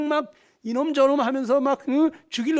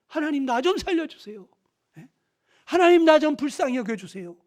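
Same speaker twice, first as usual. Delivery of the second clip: higher, louder desperate plea; crying out to God; 4 semitones higher, 3 dB louder than usual. Retold or imitated. Sinner crying out to God for mercy, desperate and raised. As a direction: cry out for mercy. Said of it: "하나님 앞에 부르짖은 거예요".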